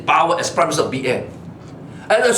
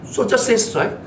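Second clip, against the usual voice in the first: ordinary delivery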